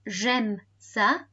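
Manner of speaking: slow, separated French words. Shown as a demonstration. Teacher repeating the recorded answer for pupils, slowly. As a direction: give each word room for learners. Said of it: "And slower".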